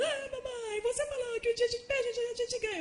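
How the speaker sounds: put-on high whiny little boy voice, near tears; crying child. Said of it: "Aí ele vem chorando".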